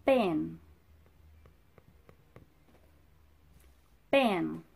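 emphatic, over-clear teacher modelling; slow clear model word. Shown as a demonstration. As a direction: say it clearly for the kids to copy. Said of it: "Repeat after me".

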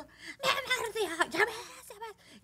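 high, drawn-out mock child's wail; crying child. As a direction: imitate a tearful little boy tattling. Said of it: "el niño seguía llorando".

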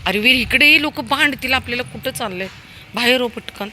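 high, loud urgent calls to the dog; calling out. Real, not acted. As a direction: get the dog back quickly. (कुत्र्याला घाईने मोठ्याने बोलावणे)

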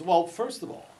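imitated New York accent. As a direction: answer like a New York cop. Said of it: "I shouldn't do a New York accent".

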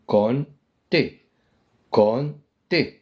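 كونتي drawn out very slowly, syllable by syllable; slow spelled-out demo. Shown as a demonstration. Teacher to class, slowly modelling كونتي. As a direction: stretch every sound of كونتي for the class. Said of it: "نقول كونتي".

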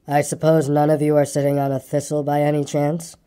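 lightly voiced glum donkey; low, mournful donkey grumble; gloomy donkey. Eeyore's voice.

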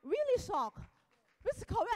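loud, high burst of astonishment; real amazement. Real, not acted. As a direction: exclaim it, still shocked by the result. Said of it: "I was shocked".

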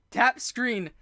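ordinary talk, nothing marked

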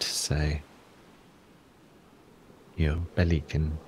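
calm guidance with long pauses between phrases; guided breathing exercise. Acted. Teacher guiding listeners through a body scan, calm and unhurried. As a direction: lead them gently through it, unhurried.

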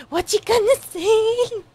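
excited anime fan urging a character. Real, not acted. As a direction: urge the character on, thrilled. Reacting, repeats louder higher.

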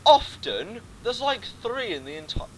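high, loud disbelieving cry; incredulous. Acted. Gamer mocks the tutorial's wording, high loud incredulity. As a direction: scoff in mock disbelief.

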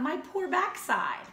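slow, pained wolf wail; mock-pained wolf; wolf crying out. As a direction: howl it in pain. He cried out loud.

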